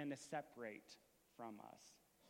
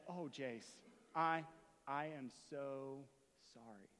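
halting, falling to a hush; retold tender apology. Father melts, apologises to crying son.

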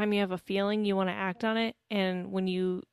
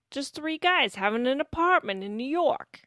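higher-pitched attempt at a New York accent; bad New York accent; 5 semitones higher than usual. Joking to co-host about guys sharing an apartment, bad New York accent. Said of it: "not a good accent".

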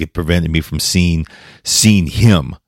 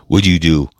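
whisper; faster than usual. Real, not acted. Overwhelmed, asking the unanswerable.

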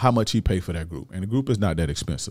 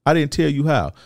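much higher, indignant outburst; snapping; 7 semitones higher than usual. Retold or imitated. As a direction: snap back at his excuse. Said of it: "like, I snap".

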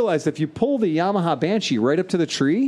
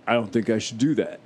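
mock deep giant voice; 4 semitones lower than usual. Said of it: "I can't make my voice go as deep as his voice".

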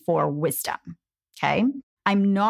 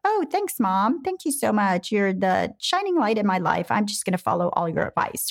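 put-on sugary grateful teen; 2 semitones higher than usual. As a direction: ham up an impossibly grateful teenager. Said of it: "they were like".

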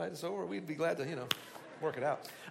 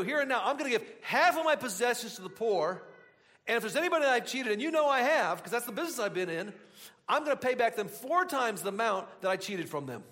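higher, eager acted-out announcement; excited declaration; 4 semitones higher, 4 dB louder than usual. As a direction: burst out with a sudden resolve. Acting out Zacchaeus announcing his conversion.

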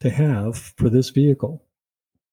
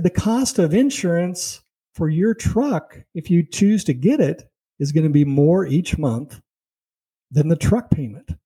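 mock loud salesman; 5 semitones higher than usual. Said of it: "very loudly".

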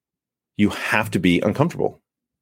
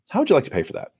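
composed closing question, higher and easy; cool, calm, collected; 7 semitones higher, much faster than usual. Shown as a demonstration. Salesperson asking the buyer for payment, cool and collected. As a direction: ask it lightly and without pressure. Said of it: "be cool, calm, and collected".

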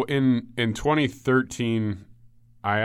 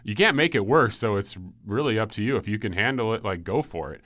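put-on South African accent. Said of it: "he has this funny South African accent".

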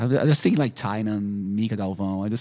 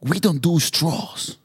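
mock stern refusal; 7 semitones higher, 8 dB louder, much slower than usual. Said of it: "I said".

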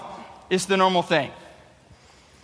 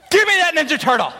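put-on higher, louder demanding child; demanding kid; 8 semitones higher, 4 dB louder than usual. Boy demanding the toy from brother, childish demand. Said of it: "Except it was more like".

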